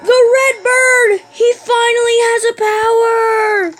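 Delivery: high, loud, drawn-out exclamation; excited. Real, not acted. Gamer discovering the red bird's new power, excited. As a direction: crow it out in amazement.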